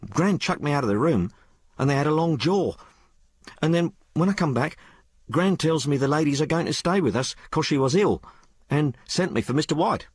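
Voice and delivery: put-on high-pitched, colloquial working girl; working-class maid Sal. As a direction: tell it as an uneducated maid confiding in her mistress. Story figure Sal.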